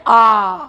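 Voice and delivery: आ held long with the mouth wide open; long open vowel. Shown as a demonstration. Teacher shows learners the long vowel आ, mouth fully open. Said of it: "पूरा मुंह खुल रहा है".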